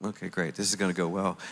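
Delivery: low, deflated irony; dry sarcasm. Retold or imitated. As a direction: mutter it with resigned sarcasm. Ironic retold reaction to refusal.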